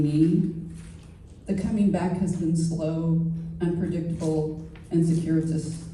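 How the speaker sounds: measured verse recital with deliberate pauses; poetry reading. Acted. Poet reads about past relationships to an audience, measured poetry reading. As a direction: let each line of the poem stand apart. Reads own poem aloud.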